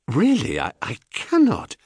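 hesitant, demure refusal; lightly voiced modest woman; mildly flustered wife. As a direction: stumble lightly over a polite protest. Procris refuses the stranger's advance.

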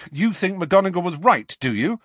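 put-on boy snapping at his friend; angry challenge. A narrator's reading. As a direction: throw it at her. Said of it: "said Harry angrily".

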